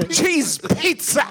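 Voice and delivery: Tim Curry impression. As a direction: belt it slowly like Tim Curry. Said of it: "You just have to say cheese pizza".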